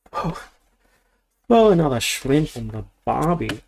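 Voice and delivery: mock Aussie accent that slips toward Cockney; stereotype Australian accent. Vlogger unboxing Lego blurts a mock Australian accent. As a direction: toss off a hammed-up Aussie catchphrase. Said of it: "What kind of accent did I just do?".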